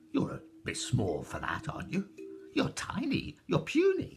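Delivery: a giantess sneering at how tiny they are; mocking giantess. A narrator's reading. Giantess mocking small visitors.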